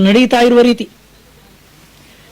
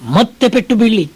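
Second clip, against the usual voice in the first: ordinary talk, nothing marked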